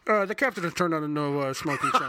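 mock cabin announcement; flight attendant. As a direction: read it like an airline captain. Imitates airline announcement.

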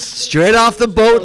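slow, high, showy announcement; announcer introduction. Pretend. Host presenting the Irish guest to the crowd, hype announcer. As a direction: stretch it out like a ring announcer.

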